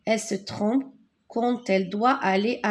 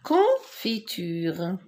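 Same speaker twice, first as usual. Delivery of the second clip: confiture again slowly, a bit lower, rising at the end; slow repeat; 3 semitones lower, much slower than usual. Shown as a demonstration. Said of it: "teacher repeats word".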